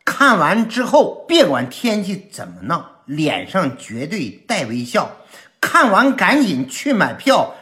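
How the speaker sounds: emphatic, punchy comic promo; rhymed promo announcement. Acted. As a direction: hit the opening of each rhyming line hard. (快板式喜剧宣传腔)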